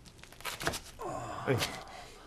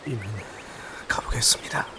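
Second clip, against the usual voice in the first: whispering; 5 dB quieter than usual. Acted. Quiet farewell to the teacher.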